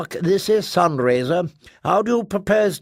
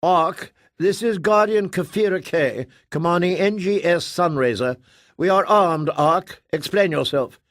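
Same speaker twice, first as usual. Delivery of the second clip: higher, louder, commanding; threatening military commander; 6 semitones higher, 3 dB louder than usual. Acted. Guardian Kafira warning the Ark, threatening. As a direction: warn them you will open fire.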